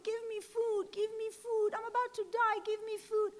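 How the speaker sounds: lightly voiced child begging; pleading child. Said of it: "he's crying and crying and crying".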